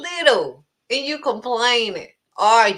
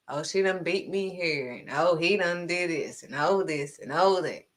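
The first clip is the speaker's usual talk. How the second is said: mock whiny complainer; 5 semitones lower, 3 dB quieter than usual. Mocking complainers in the congregation.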